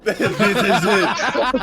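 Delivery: slow laugh-filled words. Real, not acted. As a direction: draw it out while laughing. Laughing reveal of final boss.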